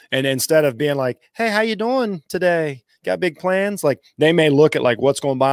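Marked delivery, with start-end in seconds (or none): 1.3-3.8 friendly greeter. Retold or imitated. Imitating over-friendly greeter at store.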